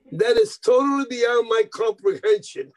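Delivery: high-pitched, emphatic disbelief; mock astonishment. Agent baffled by the bandleader's equal pay, mock astonishment.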